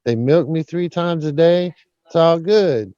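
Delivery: ventriloquist's cow chatting back contentedly; a hint of a joke-teller's cow voice; talking cow. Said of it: "Cow says".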